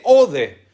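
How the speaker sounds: ode said as two syllables, o-de; teacher spelling out the Greek ode; Greek word ode. Shown as a demonstration. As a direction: sound out ode carefully. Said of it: "O podés decir O U D E".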